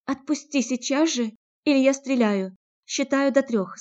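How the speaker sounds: threatening shout. Acted. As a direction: order him off at gunpoint. Natalya threatens with the gun.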